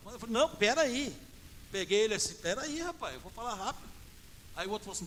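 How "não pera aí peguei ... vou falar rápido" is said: higher-pitched retold interruption; urgent halt. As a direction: cut in to stop someone walking off. Retold stopping the man who leaves.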